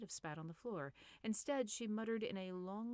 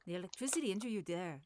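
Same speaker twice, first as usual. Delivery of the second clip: fast and louder warm-up take; overclocked read; 6 dB louder, faster than usual. Shown as a demonstration. Narrator speeding through the line to set rhythm, fast. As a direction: rattle it off at speed.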